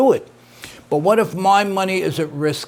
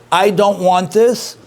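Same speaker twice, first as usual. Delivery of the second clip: firm, slow and a bit louder; emphatic refusal; 3 semitones higher, 4 dB louder, slower than usual. Retold or imitated. Father flatly refusing his son, slow emphatic words. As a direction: lean on each word, mock-emphatic father. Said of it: "If he said it emphatically".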